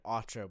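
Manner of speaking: autre as "AW-tra" with an English r; anglicised autre. Shown as a demonstration. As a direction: say autre plainly as "otra", without French sounds. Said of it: "but with a French accent".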